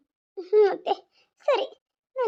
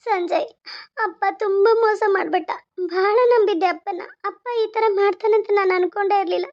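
hurt daughter, crying as she pleads; tearful pleading. Acted. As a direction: plead with him through tears. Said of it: "ನೀನ್ ಮೊದ್ಲು ಕಣ್ಣೀರ್ ಒರ್ಸ್ಕೊ". (ಅಳುತ್ತಾ ಬೇಡಿಕೊಳ್ಳುವುದು)

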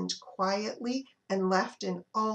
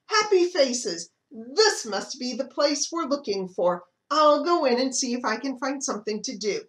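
hen voice; 3 semitones higher, 3 dB louder than usual. Acted. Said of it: "clucked the hen".

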